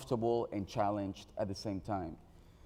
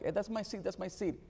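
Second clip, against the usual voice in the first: imitating a little girl, much higher and insistent; a mock-whiny girl repeating her claim, pitched up; stronger child protest; 9 semitones higher than usual. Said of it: "starts to protest a little bit stronger".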